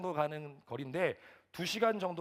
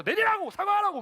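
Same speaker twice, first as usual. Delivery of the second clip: high, very loud shouted orders; bellowing in anger; 10 dB louder than usual. Retold or imitated. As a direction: yell demands while blocking the car door. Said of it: "소리를 막 버럭버럭 지르는". (버럭버럭 소리 지르는 명령조)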